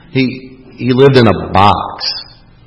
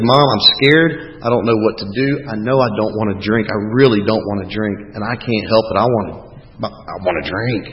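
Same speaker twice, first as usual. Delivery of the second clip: scared confession; 3 semitones lower than usual. Retold or imitated. Retold confession to his mother.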